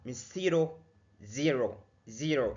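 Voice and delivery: zero with a faint s, then slowly with a buzzing z; slow right-wrong contrast. Shown as a demonstration. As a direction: draw out the z in zero. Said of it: "اتك على ال Z".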